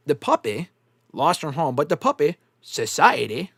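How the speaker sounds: lightly imitated movie line in short, separated bursts; movie character impression. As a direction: quote it haltingly, mimicking the character. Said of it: "that's how he says it".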